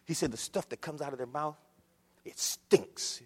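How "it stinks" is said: breathy whisper, no voice at all; whispered aside. Acted. Preacher to congregation about wicked talk, whispered aside. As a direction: lean in and hiss it like a secret.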